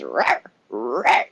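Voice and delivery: low gruff dog bark; bulldog. Retold or imitated. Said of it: "I think a bulldog goes".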